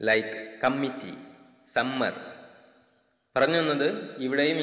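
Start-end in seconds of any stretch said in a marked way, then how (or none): 0.6-2.1 കമ്മിറ്റി and സമ്മർ with a doubled, held mm; കമ്മിറ്റി with a Malayali geminated m; typical Malayali pronunciation. Shown as a demonstration. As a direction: linger on the mm of സമ്മർ. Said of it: "double articulation നൽകാറുണ്ട് മലയാളികൾ".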